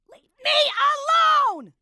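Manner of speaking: sudden loud, high yell; exasperated full-volume outburst; shouting. Acted. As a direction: explode after failing to be heard. Repeats, volume shifts to shout.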